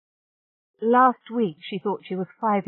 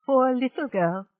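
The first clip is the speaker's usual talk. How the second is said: soothing; 6 semitones higher, 3 dB louder than usual. Acted. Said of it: "he said soothingly".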